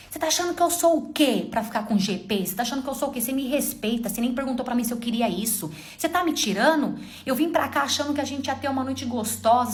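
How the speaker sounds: mild imitation of an angry husband. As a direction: scold her like an offended husband, understated. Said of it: "Ficou bravo". (imitação leve do marido bravo)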